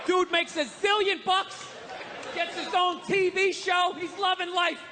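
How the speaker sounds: slow shouted build-up to the punchline; shouted stand-up rant. Acted.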